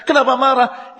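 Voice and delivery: amused rhetorical question to the listeners; laughing repeat. Shown as a demonstration. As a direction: tease them with a laugh. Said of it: "Itu yang saya katakan".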